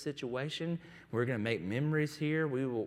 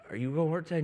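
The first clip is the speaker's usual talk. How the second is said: put-on higher, louder eager child question; excited little boy; 5 semitones higher, 4 dB louder, much faster than usual. Son asking dad on his day off, excited child voice. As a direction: ask it bouncing with a kid's excitement. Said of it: "he gets so excited".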